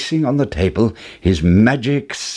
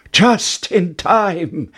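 cried out; 8 semitones higher, much slower than usual. A narrator's reading. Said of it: "cried Jack".

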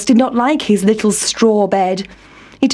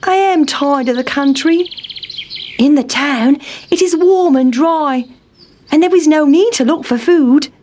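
high squeaky mouse voice; Town Mouse; 6 semitones higher than usual. A narrator's reading. Town Mouse addressing his cousin, high and squeaky. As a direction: speak as a fussy little mouse.

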